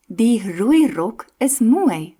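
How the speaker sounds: slowed rolled R sentence; slow demo. Shown as a demonstration. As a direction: say it slowly with trilled Rs. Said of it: "R sound in a few sentences".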